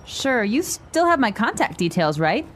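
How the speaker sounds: quick, natural conversational pace; natural speed. Shown as a demonstration. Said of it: "this time at natural speed".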